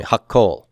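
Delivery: hakol with a held double k; doubled consonant. Shown as a demonstration. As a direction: stop on the k in hakol before releasing it. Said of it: "Say that for me".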